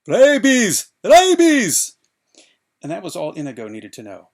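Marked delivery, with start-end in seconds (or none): 0.1-2.0 high, piercing cry of terror; panicked cry. A narrator's reading. Fezzik warning Inigo of the bats, crying out in panic. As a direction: shriek the word in panic. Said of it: "before Fezzik cried".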